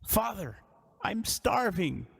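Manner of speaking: lightly voiced young man calling up, slow; a hint of a starving son pleading from below; drawn-out starving plea; young man crying out. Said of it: "you hear a young man's voice cry out".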